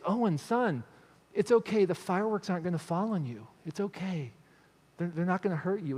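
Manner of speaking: soft, gentle dad soothing his son; calm him down quietly; reassuring dad. Retold or imitated. Dad calming scared son.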